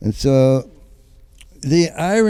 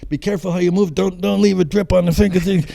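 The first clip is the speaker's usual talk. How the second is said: nervous self-talk; 7 semitones higher, 4 dB louder than usual. Retold or imitated. Talking himself through scraping paint.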